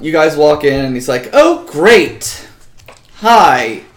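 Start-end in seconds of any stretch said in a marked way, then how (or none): 1.3-3.8 deflated, unenthused shopkeeper greeting; bitter disappointment. Acted. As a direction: greet them like they're bad news. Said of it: "Why do you sound disappointed?".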